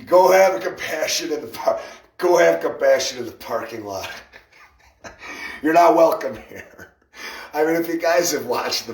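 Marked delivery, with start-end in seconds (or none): 0.1-1.8 raised voice; louder, higher first take. Retold or imitated. Same line repeated. 2.2-6.9 raised, scolding voice; stern shout. Retold or imitated. Quoting someone shouting them away.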